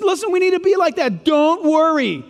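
calm the worried listeners; tender, slowed reassurance; reassuring Jesus. Retold or imitated. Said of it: "Jesus says".

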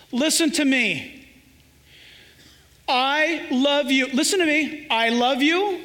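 put-on slow, tender words to a child; tender parent. Parent comforting a sad child, tender and slow. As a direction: lift the chin and speak gently. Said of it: "you say just like this".

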